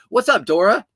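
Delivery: loud, lifted hello with a rise; cheery greeting. Real, not acted. Vlogger greets a viewer, loud and lifted. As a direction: call out the name happily.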